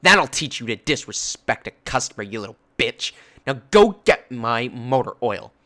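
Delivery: imitated angry yell; angry customer yelling. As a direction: bark it like a spiteful shopper. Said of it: "the angry lady was yelling at me".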